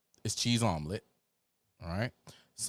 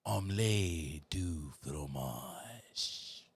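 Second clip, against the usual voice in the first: mock French; 6 semitones lower, 5 dB quieter, much slower than usual. Favorite French word joke.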